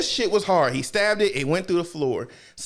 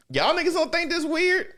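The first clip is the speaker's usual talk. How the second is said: incredulous; 13 semitones higher than usual. Retold or imitated. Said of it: "I'm just like".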